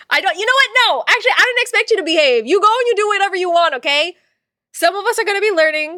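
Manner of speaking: sassy teasing. Real, not acted. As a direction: tease them for not behaving. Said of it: "teasing a chat buddy".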